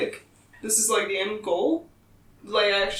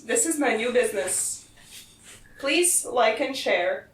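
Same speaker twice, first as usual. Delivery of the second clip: robot voice. Retold or imitated. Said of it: "Is it in the robot voice?".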